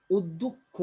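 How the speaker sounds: অধ্যক্ষ said as উদ্যক্ষ with a rounded first vowel; অধ্যক্ষ pronounced "ওদ্ধোক্ খো"; spoken pronunciation. Shown as a demonstration. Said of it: "আদ্য অটা ও এর মতো উচ্চারণ হচ্ছে".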